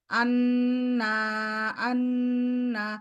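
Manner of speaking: আন্না with a wavy rising-falling pitch; don't keep আন্না level, let it wander; wavering tune. Shown as a demonstration. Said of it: "এরকম বলবেন না please". (ভুল ঢেউ খেলানো সুর)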